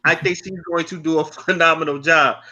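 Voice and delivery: slowed-down repeat. Real, not acted. Podcaster clearing up a misheard name, slowed down and careful. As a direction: say it deliberately so nobody mishears. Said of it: "probably 'cause I'm talking fast".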